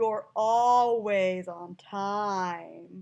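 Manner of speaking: dripping sarcasm, drawn-out vowels, stretched timing. Showing how sarcasm sounds in speech, sarcastic with drawn-out vowels. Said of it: "a lot of up and down and a lot of drawn out with sarcasm".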